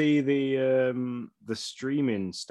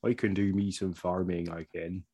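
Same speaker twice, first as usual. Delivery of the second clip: put-on Southern country accent; 4 semitones lower than usual. Offering to stream some farming simulator, in a put-on Southern accent. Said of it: "that's my best accent for the".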